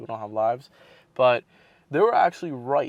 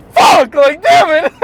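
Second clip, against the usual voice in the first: frustrated shout; 16 dB louder, slower than usual. Retold or imitated. Frustrated outburst at rejection.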